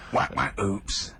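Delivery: slow, spoken sound effect. Shown as a demonstration. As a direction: say it slowly like a comic sound effect. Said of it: "I can do the sound effect".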